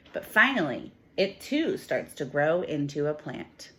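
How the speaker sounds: lively, expressive storybook reading for a class; reading to children. Acted. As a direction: read it like a picture book for little kids. Teacher reads picture book aloud.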